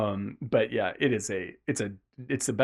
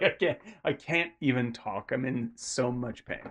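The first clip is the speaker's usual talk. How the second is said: pained, subdued; 6 dB quieter than usual. Retold or imitated. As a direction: let the words sink, barely getting them out. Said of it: "he's just like".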